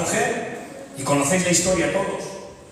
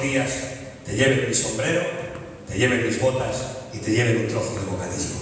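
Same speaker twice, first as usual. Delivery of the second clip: gentle father's letter; 5 semitones lower than usual. Acted. Father's letter read in story.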